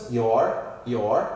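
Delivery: "your" said twice like "yor"; pronunciation demo. Shown as a demonstration. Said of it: "a mesma pronúncia".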